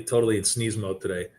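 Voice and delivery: normal talking voice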